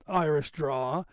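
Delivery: slow Boston-Irish drawl. Shown as a demonstration. Host on his Boston relatives, Boston Irish drawl. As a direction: draw it out with a Boston Irish lilt. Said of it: "so I have that".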